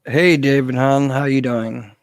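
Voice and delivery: ordinary talk, nothing marked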